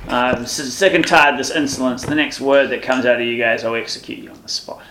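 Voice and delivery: mildly angry military dressing-down; stern officer's reprimand. Acted. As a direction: lay down a threat to insolent troops. Officer threatens the insolent soldiers.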